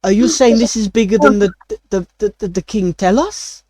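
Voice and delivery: a chef startled by the news; mock terrified. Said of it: "he looks at you, like, terrified".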